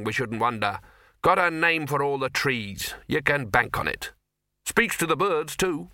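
enthuse as cosy senior wizards; jolly clubbable dons talking him up; chummy old wizards. Acted. Wizards enthuse about Ridcully.

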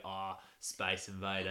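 slow mock-Aussie verdict; drawn-out attempt at Aussie; bad Australian accent. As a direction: lightly imitate a laconic Australian, amused. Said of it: "I can't do an Australian accent".

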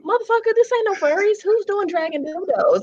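high, indignant protest; mock outrage. Real, not acted. Answering a friend's dildo joke, indignant.

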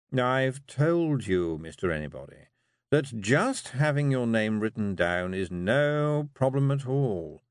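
slow, patient legal voice; the toad reassuring Rob; lawyerly toad. Acted.

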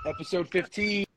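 big podcast intro, stretching the key words; show announcer. Real, not acted. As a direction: announce the show title with ringmaster emphasis. Host launches the show intro.

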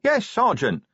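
high, meek troll voice; young troll answering his sergeant, obedient. Acted. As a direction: answer like a dutiful recruit. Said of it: "said Brick obediently".

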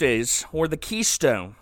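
hammed-up menacing ask; mildly hammed slow Silas threat; Silas taunting. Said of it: "And Silas is like".

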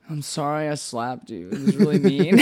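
a hint of a sorry drunk, laughing at the end; mock drunk apology. Drunk Ben's apology, teller cracks up.

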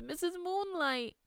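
put-on high, slow wail of a frightened child; acted sobbing. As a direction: wail it like a tearful little girl. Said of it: "the girl sobbed".

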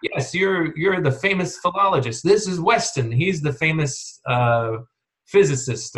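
butter him up, all sweetness; mock delighted. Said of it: "just very pleased".

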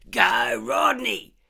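very high, very loud cheering scream. Acted. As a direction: scream him on like a fan at a cockfight. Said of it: "he screamed".

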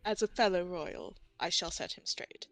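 soft, courtly and humble; hushed deference. Acted. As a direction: murmur it like a loyal courtier. Fairy humours the royal cat.

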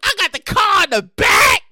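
long drawn-out hammed-up cries; mock-devastated pleading, stretching every no; mock anguished wailing. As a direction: wail in exaggerated despair. Acting out horror at bank's reversal.

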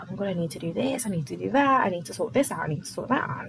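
lightly acted rush of worries; mock overwhelm. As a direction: rattle off a to-do list, mildly frazzled. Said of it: "it's so easy to be like".

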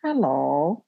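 imitating dad's too-loud hello; mock loud hello; loud deaf hello. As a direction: boom out hello like a half-deaf dad. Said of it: "And my dad goes".

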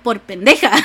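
laughing dad. Retold or imitated. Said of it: "he's like".

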